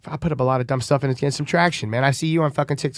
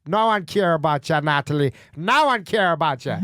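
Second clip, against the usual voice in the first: lightly put-on Jamaican accent, teasing; hint of a Jamaican girl, playful. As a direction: loose Jamaican patois lilt. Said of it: "You want me to do Jamaican girl?".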